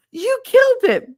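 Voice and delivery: loud, high-pitched mock outcry; horrified friend. Friend sees the worm broken, horrified. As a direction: mimic a friend's over-dramatic accusation.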